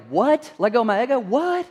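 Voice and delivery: mock-baffled rising questions; playing a puzzled congregant who mishears; confused listener. Preacher mimics confused listener, rising pitch. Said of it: "some of you are like".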